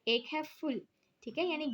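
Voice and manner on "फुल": "फुल" set apart as one syllable; second syllable alone. Shown as a demonstration. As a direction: isolate "फुल" as the second beat. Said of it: "इसमें टू syllables हैं".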